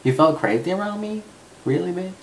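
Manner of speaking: high-pitched, incredulous questioning; mock-offended disbelief. To his excited best friend, mock-offended disbelief. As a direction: pitch it way up, playfully affronted.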